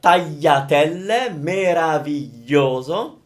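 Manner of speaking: meraviglioso drawn out, gli clearly said; slow demo. Shown as a demonstration. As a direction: savour meraviglioso slowly. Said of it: "the beautiful y".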